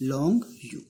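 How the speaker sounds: long U drawn out as yoo. Shown as a demonstration. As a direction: say long U slowly. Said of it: "we pronounce". (लंबा यू बोलना)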